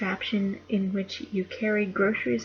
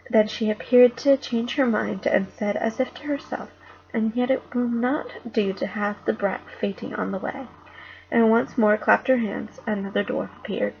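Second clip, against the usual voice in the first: put-on reading a children's book aloud, a bit louder; story reading; 4 dB louder than usual. A narrator's reading. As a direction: read it like a bedtime chapter to the household. Reads Narnia to family.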